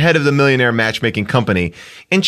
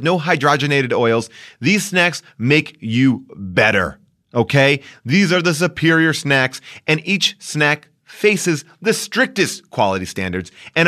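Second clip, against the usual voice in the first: podcast ad read; 3 semitones lower, slower than usual. Acted. Host telling listeners about snack boxes, emphatic ad read. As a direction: sell it hard, leaning on the selling points.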